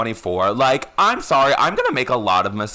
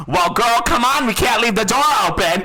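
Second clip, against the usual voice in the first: higher, louder call down the stairs; imitating Madeline; 9 semitones higher, 3 dB louder than usual. Friend imitating Madeline hurrying them up the stairs.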